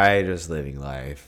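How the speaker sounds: slow, lightly put-on mimicry; Kourtney Kardashian impression. Friend repeating a celebrity meme, lightly mimicked slow voice. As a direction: draw it out in mild imitation. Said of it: "in her voice. That's a really bad impression".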